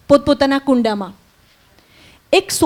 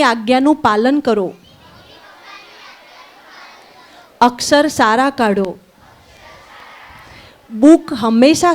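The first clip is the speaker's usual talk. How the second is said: call-and-repeat blessing. Acted. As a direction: recite each blessing for the class to echo. Leads blessings for repetition.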